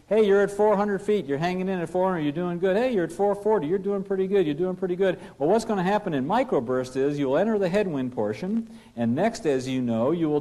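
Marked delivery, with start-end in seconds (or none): 0.1-5.2 higher, upbeat encouraging callouts; coaching copilot calling out altitude. Acted. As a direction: cheer the pilot on as the climb holds. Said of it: "Pilot not flying is saying".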